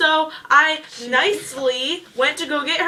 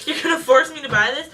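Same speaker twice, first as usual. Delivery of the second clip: laughing disbelief; 3 semitones higher, 5 dB louder than usual. Retold or imitated. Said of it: "I'm like".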